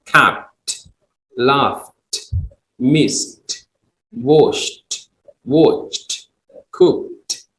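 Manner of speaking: each word said alone with a clear final T sound; capped with a crisp T at the end; ed endings demo. Shown as a demonstration. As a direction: model the ed ending slowly, word by word. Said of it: "So this all E D".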